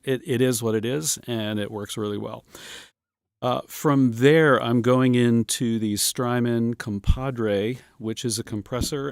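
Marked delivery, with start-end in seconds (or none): 4.6-9.1 hard plosive pops on the mic; popping P's into the microphone; popping p sounds. Real, not acted. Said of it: "I hear my P's popping here".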